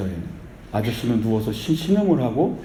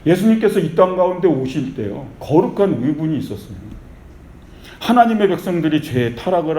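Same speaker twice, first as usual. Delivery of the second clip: raised-pitch sermon proclamation; fervent preaching; 3 semitones higher than usual. Real, not acted. Preacher urging believers toward holy indignation, fervent preaching. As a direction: drive each phrase home to the congregation.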